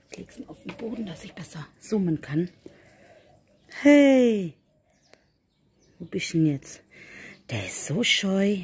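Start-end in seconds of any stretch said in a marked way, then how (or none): 3.8-4.5 high calling hey. Real, not acted. Calling a cat.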